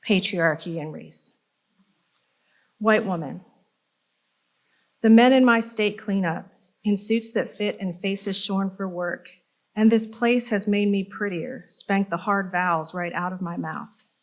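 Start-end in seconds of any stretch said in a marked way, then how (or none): 2.8-14.1 measured, emphatic poem recital; poetry reading. Acted. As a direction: push each line's opening, then let it fall. Reads third poem aloud.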